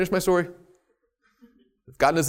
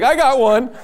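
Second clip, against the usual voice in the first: high, loud eager "I got one"; eager volunteer; 8 semitones higher, 7 dB louder than usual. Retold or imitated. Congregant eagerly volunteering a testimony, high and loud. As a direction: blurt it out like a keen listener. Eager listener raising hand.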